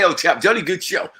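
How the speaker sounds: mock posh English gent; plummy toff voice, lightly done; put-on posh voice. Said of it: "I say".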